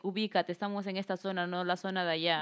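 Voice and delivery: mock a posh lady scolding; lightly voiced snob looking down on someone; snobby scolding. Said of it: "por decir".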